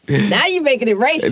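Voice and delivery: playful African American accent. Shown as a demonstration. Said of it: "That's my black voice".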